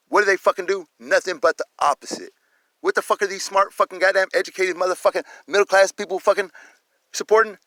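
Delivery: real outrage, high and loud; indignant rant. Real, not acted. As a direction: fire off outraged rhetorical questions. Ranting about police and their supporters.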